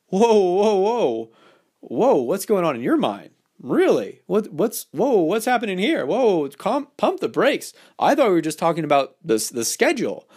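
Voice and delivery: hammed-up fake outrage, pumping the brakes; mock shocked. Shown as a demonstration. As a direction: pretend to be shocked by her dirty mind. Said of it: "I would say things like that extremely playfully".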